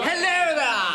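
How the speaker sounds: high, loud hammed-up hello with a laugh; bright gushing hello. Ronnie butting in on the posh set, gushing hello. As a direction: greet the toffs with a big put-on hello.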